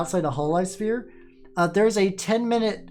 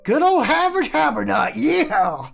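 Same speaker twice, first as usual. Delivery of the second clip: a much higher, louder hype cry of her own name; excited hype; 7 semitones higher, 4 dB louder than usual. Real, not acted. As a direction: cheer herself on, full of hype.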